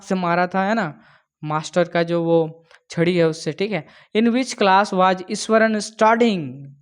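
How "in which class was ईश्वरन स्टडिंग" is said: slow, careful read; slow question reading. Shown as a demonstration. Teacher reading the question slowly to students. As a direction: give it slowly so everyone follows.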